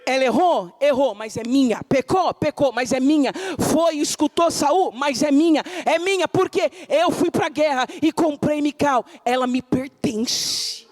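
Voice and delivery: insistent possessive voice of David; David claiming his wife. Acted. Preacher voicing David, firm and possessive. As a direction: declare she is yours, forcefully.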